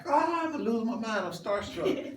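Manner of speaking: high, loud fan freak-out; mock starstruck outburst; starstruck kid. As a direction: squeal it like an overwhelmed young fan. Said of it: "growing up as kids".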